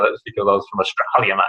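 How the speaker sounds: put-on lightly broadened Australian accent; a hammed-up hint of Australian accent; exaggerated Aussie accent. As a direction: lean a little into the Aussie "mate". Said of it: "obviously the Australian accent".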